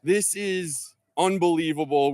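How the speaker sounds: high, loud, slow play-by-play shout; excited shout. Real, not acted. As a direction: call the lip-out at full voice. Putt lips out, live call.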